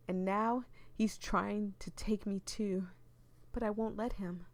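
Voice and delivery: dramatic read-aloud of a creepy tale; eerie storytelling voice; story narration. Acted. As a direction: read it like a ghost story to the viewers.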